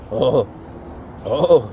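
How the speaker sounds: imitated drawn-out moan of pleasure; put-on groaning; mock moan. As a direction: moan as an impression. Imitating George moaning.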